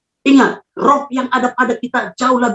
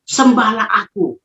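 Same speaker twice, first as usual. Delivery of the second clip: Lucifer; slower than usual. Retold or imitated. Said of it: "dia katakan".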